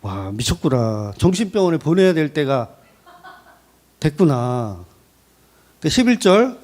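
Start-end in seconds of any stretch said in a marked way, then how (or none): 0.0-4.8 Eliphaz's appalled reaction. Acted. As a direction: mutter it as if writing someone off as mad. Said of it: "내가 엘리바스라면 어떤 태도를 보이겠어요?".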